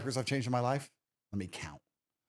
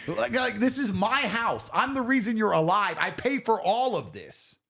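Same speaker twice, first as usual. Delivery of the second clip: mock tyrant father; 8 semitones higher than usual. Father mock-commanding his kids.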